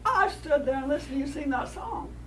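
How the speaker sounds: hammed-up insulted coyote; indignant coyote. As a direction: bristle at being called a liar. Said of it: "he says".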